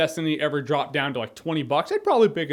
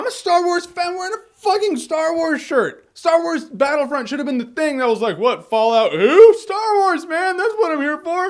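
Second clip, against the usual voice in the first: much higher, louder giddy fan cry; fan excitement; 10 semitones higher, 4 dB louder than usual. Real, not acted. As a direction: burst out like a thrilled fan.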